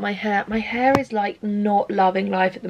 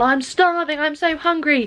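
higher-pitched mimicked whining; mock whittering; 5 semitones higher than usual. Vlogger mimics Michael complaining about being hungry, mock whittering. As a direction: imitate someone moaning on about hunger. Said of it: "Michael's whittering on".

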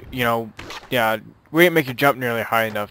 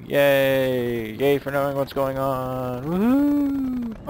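excited cheering; 2 semitones higher, much slower than usual. Real, not acted. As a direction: cheer like you just won. Cheering about knowing video.

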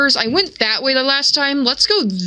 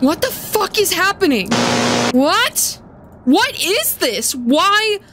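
high bewildered questions; baffled; 6 semitones higher than usual. Real, not acted. Player lost in the world, baffled and high. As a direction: ask in rising disbelief. Confused after teleport.

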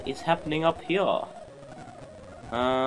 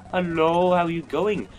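slightly exaggerated, higher singsong hello; putting on a greeting; 4 semitones higher, 4 dB louder than usual. Player greets a character aboard, lightly hammed-up greeting. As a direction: greet a stranger with mock friendliness.

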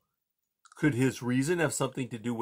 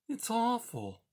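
tiny, high squeak, barely there; 10 semitones higher, 6 dB quieter than usual. A narrator's reading. Poppy frozen before the owl, barely squeaking. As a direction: squeak it out, scared stiff. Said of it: "she barely squeaked".

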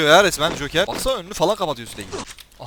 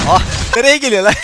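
laughing; 6 semitones higher, 7 dB louder than usual. Real, not acted. Startled by attacking players.

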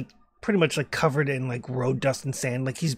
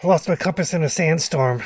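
louder, projected voice; mild acted shout; shouting from afar; 2 semitones higher, 5 dB louder than usual. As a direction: call the explanation across. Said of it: "again, he's shouting".

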